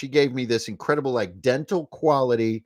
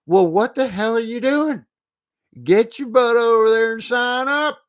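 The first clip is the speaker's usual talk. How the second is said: put-on higher, louder hayseed country accent; 7 semitones higher, 5 dB louder than usual. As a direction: razz the fans in a hammed-up hick accent. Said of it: "the hayseed accent today".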